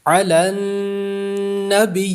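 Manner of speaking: علی النبی recited slowly, pausing without an added h sound; علی النبی بغیر ہا کی آواز; correct tajweed. Shown as a demonstration. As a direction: stop on علی النبی with no h at the end. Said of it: "ہا کی آواز پیدا نہیں کرنی".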